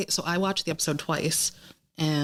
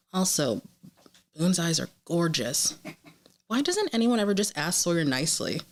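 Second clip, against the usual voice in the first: lightly performed running commentary; animated reading of jotted reactions; reading stream of consciousness; 3 semitones higher than usual. Real, not acted. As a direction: read out your snarky viewer notes, addressing each character. Reads her stream of consciousness.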